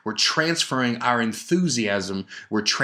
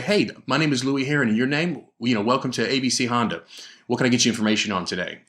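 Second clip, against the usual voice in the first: upbeat, quick salesman welcome; energetic greeting; faster than usual. Shown as a demonstration. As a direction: greet the customer with energy, a bit faster. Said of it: "Now, I can change my tone".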